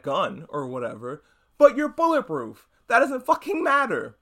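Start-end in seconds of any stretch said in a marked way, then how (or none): 1.6-4.2 sudden louder, higher burst of disbelief; exasperated outburst. Real, not acted. Venting at the hero's excuse in a louder, higher exasperated burst. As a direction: raise the voice in angry disbelief.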